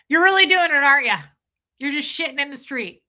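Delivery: high, loud hammed-up scolding; mock indignant movie quote. Quoting Bridesmaids to Kat, high hammed-up scolding. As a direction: ham up the shocked bridesmaid.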